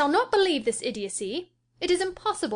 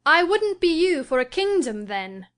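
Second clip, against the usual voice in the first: higher and louder, firm; emphatic declaration; 8 semitones higher, 4 dB louder than usual. A narrator's reading. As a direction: declare it with force. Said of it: "Catherine declared emphatically".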